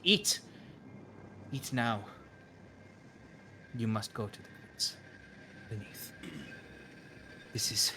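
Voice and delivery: the seer abruptly frantic, urging the guest. Acted. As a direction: push her to eat, suddenly alarmed. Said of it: "and she's very frantic".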